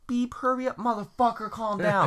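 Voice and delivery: high impatient shout at himself; impatient yelling. Retold or imitated. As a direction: rush the stuck transmission, yelling. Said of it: "I'm just like".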